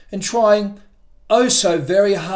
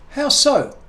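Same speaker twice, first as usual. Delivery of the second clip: squirrel voice; 8 semitones higher than usual. A narrator's reading. Squirrel asks.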